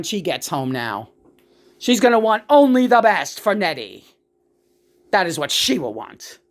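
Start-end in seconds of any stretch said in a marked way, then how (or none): 1.8-6.4 Ina's voice. Retold or imitated. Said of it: "That's Ina speaking".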